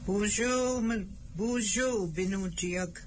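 cheerful greeting. Real, not acted. Greeting the children warmly.

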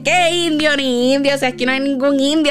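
dismissive back-talk. Retold or imitated. Granddaughter disputing grandmother's warning about the Indian, indignant retort.

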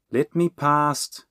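drawn-out, insistent command; ordering. A narrator's reading. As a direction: order them aside. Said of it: "Bernie ordered".

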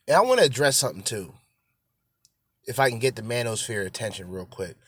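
ordinary talk

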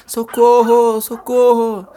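high, loud shouted call; loud call across the street; calling for help. Acted. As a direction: cup your hands and yell. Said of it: "colocou suas mãos em volta da boca".

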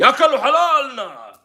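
high, loud, drawn-out wail of complaint; hammed-up protest; mock outcry. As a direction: imitate an aggrieved cry, stretching it out. Mimics complaint about refugees.

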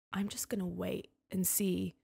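hushed whisper to herself. Retold or imitated. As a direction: breathe it like a private thought. Retelling her own inner thought.

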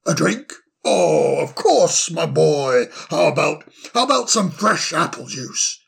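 put-on cheery, fussy old owl voice; bustling, delighted host; jolly old owl. Solly offers juice.

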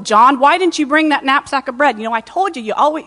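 lightly voiced disciple scolding a friend; mock bickering. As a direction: grumble at John as if arguing over bread. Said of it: "were they kinda back and forth?".

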